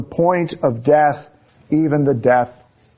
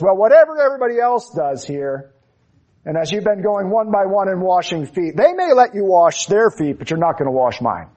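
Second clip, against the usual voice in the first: indignant Peter; 6 semitones higher than usual. Retold or imitated. Peter refuses Jesus.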